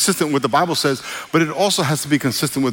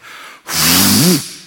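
loud horse snort imitation; 5 semitones lower, 5 dB louder than usual. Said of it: "her head went".

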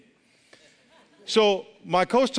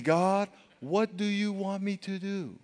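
humble plea; 2 semitones higher, 6 dB quieter, slower than usual. Shown as a demonstration.

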